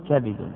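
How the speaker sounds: "كبد" as kabidun, a then i; "كبد" opened out as ka-bi-dun; variant kabid. Shown as a demonstration. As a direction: say "كبد" with a vowel on the ba. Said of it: "هذه ثلاث لغات".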